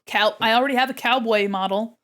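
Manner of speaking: ordinary talk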